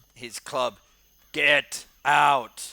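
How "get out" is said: brutish, very loud troll roar. Voicing a troll rushing out of a cavern: troll yelling. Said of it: "this troll that yells at him".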